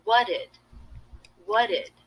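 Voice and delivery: "What did" with the t of What dropped; reduced demo. Shown as a demonstration. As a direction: glide What straight into did. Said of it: "I've dropped the T here".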